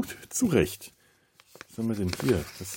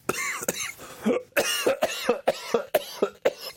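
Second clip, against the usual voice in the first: hard coughing fit, choking on a drink. Real, not acted. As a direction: cough as if a sip went down wrong. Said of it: "ich hab mich total verschluckt". (verschluckt husten)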